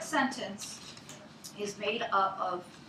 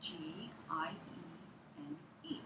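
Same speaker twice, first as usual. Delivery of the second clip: spelling out slowly; 4 semitones lower, 10 dB quieter, slower than usual. Shown as a demonstration. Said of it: "Can I spell hygiene?".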